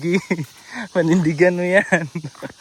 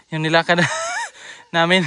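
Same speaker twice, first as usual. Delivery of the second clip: laughing. Real, not acted. Laughing while walking uphill.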